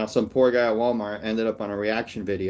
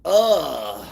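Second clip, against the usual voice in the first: mock disgusted groan; 2 semitones higher, 4 dB louder than usual. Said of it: "To be told how to feel?".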